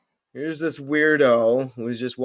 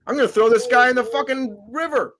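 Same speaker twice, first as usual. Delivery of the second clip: acted defiance; 8 semitones higher than usual. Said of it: "this guy's like".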